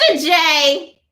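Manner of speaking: Harley Quinn. Pretend. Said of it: "Harley Quinn!".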